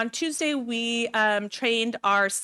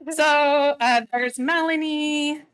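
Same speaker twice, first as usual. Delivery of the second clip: emotional; 6 semitones higher, slower than usual. Real, not acted. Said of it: "this is making me emotional".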